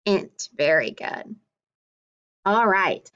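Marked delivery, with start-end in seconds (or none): 0.1-0.5 "int" as the ending of print alone; "int" starting straight on the short i; word without blend. Shown as a demonstration. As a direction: say "int" as a separate chunk. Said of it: "without the pur is just".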